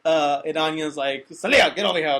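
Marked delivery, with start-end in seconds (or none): 1.3-2.2 louder, urgent call across the room; sharp call. Retold or imitated. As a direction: call her back sharply. Anya calling her charge away.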